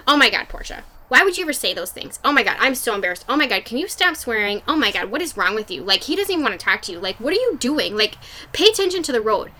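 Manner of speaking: imitating nagging, exasperated relatives; mildly hammed-up scolding, each complaint piled on the last; retold family telling-off with swinging pitch; mock scolding. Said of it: "attacked me during that conversation".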